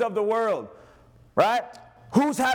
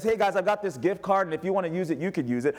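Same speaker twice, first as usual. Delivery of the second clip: generous offer. Retold or imitated. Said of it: "Like a mom or dad who says".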